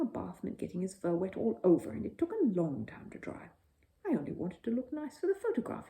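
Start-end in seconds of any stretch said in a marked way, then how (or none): 4.1-5.9 firmly. A narrator's reading. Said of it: "he said firmly".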